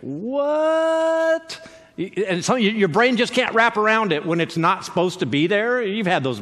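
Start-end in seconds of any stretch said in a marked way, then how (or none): 0.0-1.7 baffled what. Acted. Baffled reaction to something unexpected.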